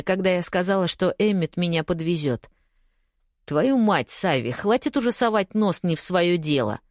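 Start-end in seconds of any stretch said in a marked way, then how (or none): 3.5-6.8 curse, then an angry bark. Acted. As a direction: snap at her to back off. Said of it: "рявкнул Эммет".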